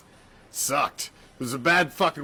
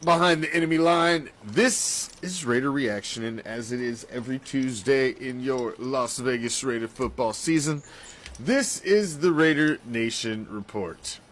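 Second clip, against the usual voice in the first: show intro. Acted. Host opening a weekly Raider show, announcer intro. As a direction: hit the opening words hard, stretch the show's name.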